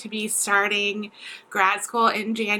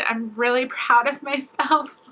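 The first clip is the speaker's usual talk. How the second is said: emotional; 3 semitones higher than usual. Real, not acted. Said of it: "I don't know why I'm getting emotional".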